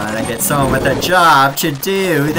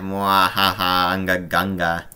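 low, villainous mad scientist; lightly voiced mad scientist villain; 5 semitones lower, 4 dB quieter than usual. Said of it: "it's me, Doctor Zomboss".

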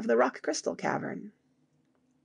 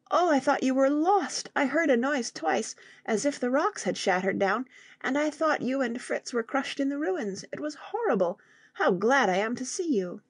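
a lightly voiced young boy, higher, relieved after a fright; higher boyish voice tumbling out his relief; frightened child; 6 semitones higher than usual. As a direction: play the little boy who thought his father was crushed. Young Jack relieved after fearing loss.

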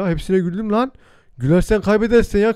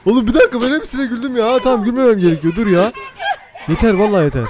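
stifled giggles; 5 semitones higher, 4 dB louder than usual. Real, not acted. Trying not to laugh at video.

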